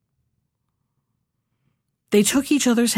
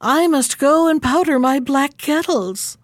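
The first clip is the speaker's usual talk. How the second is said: snow queen voice; 5 semitones higher than usual. Acted. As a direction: voice a grand icy queen. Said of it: "said the Snow Queen".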